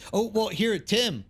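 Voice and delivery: usual speaking voice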